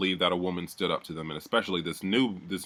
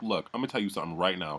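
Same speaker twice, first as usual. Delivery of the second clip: low-key, softer retold warning; dead-serious imitation; 2 semitones lower, 6 dB quieter, faster than usual. Deborah confronting Lowton in his face, imitated dead-serious warning. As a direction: imitate getting real in someone's face, quietly. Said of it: "She got so real".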